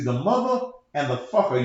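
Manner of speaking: "mother" and "fucker" each stressed separately; emphasis on both halves. Shown as a demonstration. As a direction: punch "mother", then punch "fucker". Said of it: "you have to put emphasis on".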